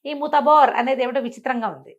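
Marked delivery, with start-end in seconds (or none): 0.1-0.7 magic word. Shown as a demonstration. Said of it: "మంత్రం అనుకో".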